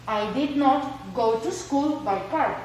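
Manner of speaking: slow, careful English repeat; slow repeated example. Shown as a demonstration. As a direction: say it again just as slowly for the class.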